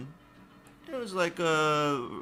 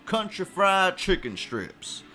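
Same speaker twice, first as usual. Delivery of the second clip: put-on Whataburger southern accent. Burger chain showing off its Texas toast sandwich, southern accent. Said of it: "I also have a southern accent".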